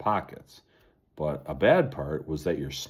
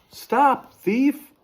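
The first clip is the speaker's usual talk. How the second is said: loud, high accusing cry; high loud Sasquatch shout; 7 dB louder than usual. Acted. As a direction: bellow at the thief to halt. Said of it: "the Sasquatch shouted".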